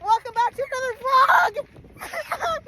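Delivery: high, slow intro; excited vlog intro. Shown as a demonstration. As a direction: stretch out the welcome. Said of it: "Finish the Sentence!".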